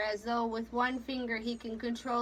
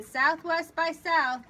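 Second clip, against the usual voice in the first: firm order; 5 semitones higher, 6 dB louder, slower than usual. Acted. Captain's order.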